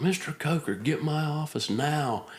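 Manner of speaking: high mock yell of a commander; screamed summons. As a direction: bark the name like an angry boss across the room. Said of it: "screams out".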